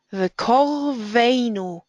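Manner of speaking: vekorveinu with o in "kor", stress on "vei"; slow "vekorveinu", closed "kor" then stressed "vei"; unstressed closed kor. Shown as a demonstration. Teacher reading an example, o in the kor of vekorveinu. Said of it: "is an unstressed, closed syllable".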